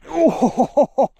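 high thrilled oh; a sudden delighted cry; excited gasp. Real, not acted. Hears the fish splash.

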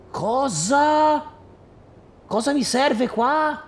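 can't believe it; incredulous "Cosa?"; baffled surprise. Real, not acted. Baffled by game requirement.

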